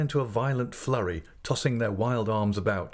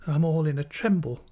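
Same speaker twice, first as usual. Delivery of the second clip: higher-pitched, anxious falter; nervous, pitched-up plaint; 7 semitones higher than usual. Acted. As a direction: falter like a frightened young mother. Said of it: "faltered my mother".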